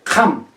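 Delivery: jam said with back-throat friction; throat fricative. Shown as a demonstration. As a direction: rasp the j in jam. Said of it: "no pueden decir".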